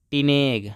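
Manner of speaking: "टिनेग" with long e in the last syllable; pronunciation demo. Shown as a demonstration. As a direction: model "टिनेग", ending in neg. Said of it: "इसको पढ़ें दोस्तों".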